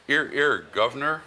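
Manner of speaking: high, hammed-up bad Cockney; Dick Van Dyke Cockney. Shown as a demonstration. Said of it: "do the accent".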